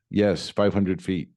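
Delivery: slow imitation of broken English. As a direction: lightly mimic halting broken English, dragging each word. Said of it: "in broken English".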